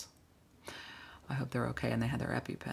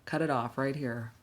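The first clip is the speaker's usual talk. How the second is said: trained firm halt; much slower than usual. Acted. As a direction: stop them short with a drawn "whoa". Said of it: "I'm trained to talk like that".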